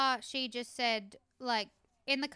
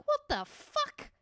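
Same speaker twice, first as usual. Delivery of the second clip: slow, much higher-pitched disbelief; incredulous disgust; 14 semitones higher, slower than usual. Retold or imitated. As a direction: replay your stunned reaction, drawing it out high. Retells disgusted reaction to TV line.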